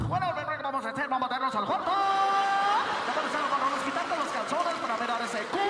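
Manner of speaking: fast, loud, booming Spanish radio voice. Acted. Radio host talking to his wife in bed, booming DJ voice. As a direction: hype it like a late-night DJ ad.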